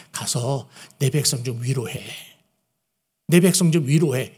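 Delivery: God sending his prophets, plainly voiced; a calm request from God to go and comfort; gentle instruction to comfort his people; the right reading. Shown as a demonstration. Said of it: "하나님이 뭐라고 그래요".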